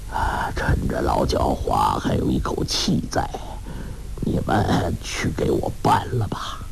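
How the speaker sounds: put-on weak, whispery old man with a faint laugh; dying old master. A narrator's reading. 洪七公病重，对徒弟们低声交代心愿. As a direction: breathe it out, fading but calm. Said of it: "洪七公笑道".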